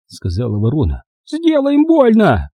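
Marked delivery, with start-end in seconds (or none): 1.3-2.5 high, slow, creaking crone's urging; creaky crow voice. A narrator's reading. Old crow urging Rodney to hurt them, high and creaky. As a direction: hiss him on like a creaking old witch. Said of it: "Её голос был скрипучим".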